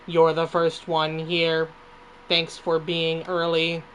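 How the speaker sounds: slow, steady robot delivery; a hint of a robot, slow and even. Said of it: "the robot voice".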